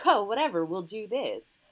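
high, loud, flouncing dismissal; mock flamboyant prancing guy. Mocking the cliché gay character with a flouncy high voice. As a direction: toss it off like a prancing stereotype. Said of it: "prancing guy just like".

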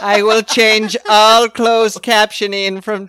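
slow villain decree; megalomaniac rant. Pretend. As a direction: proclaim the evil plan slowly. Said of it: "Sounds like a bad supervillain thing".

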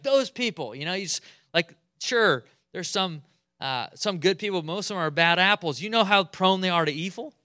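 blaming Aaron. Retold or imitated. Aaron blaming the community to Moses, mock gossip. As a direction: pass the blame with a shrug. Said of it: "That's what Aaron says".

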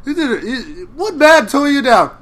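high, loud teasing impression; mock Ian McShane voice. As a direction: ham up the McShane line. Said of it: "so just be like".

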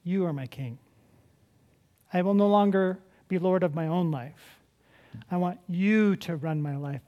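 sample prayer. Pretend. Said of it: "you have to say".

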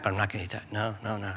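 low, soft self-talk; acted resolve, dropped right down; self-denying dieter. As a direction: refuse it quietly to yourself. Dieter resisting temptation.

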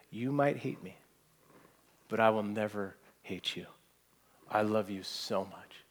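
a mother quietly fighting back tears; tearful mother. Retold or imitated. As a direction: tell the child gently through mild tears. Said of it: "She's fighting back tears".

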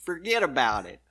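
Joe Pesci impression. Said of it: "It was Joe Pesci from Casino".

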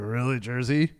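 mock New Yorker disdain, dropping low; disdainful. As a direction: imitate a snob doubting the place. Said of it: "disdain that most New Yorkers have".

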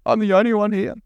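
high, whiny imitation of Elijah; mock self-pity. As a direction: parody his rehearsed complaint. Mocking Elijah's rehearsed speech.

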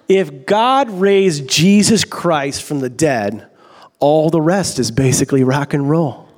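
slow, lightly put-on British accent. Preacher quoting a cab driver, slow British accent. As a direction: deliver it slowly with a hint of British. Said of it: "do the quote in a British accent".

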